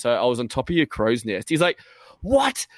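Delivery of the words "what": high-pitched startled yelp, imitated; retold shriek of disbelief; freaking out. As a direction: act out a sudden freak-out. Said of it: "starts freaking out".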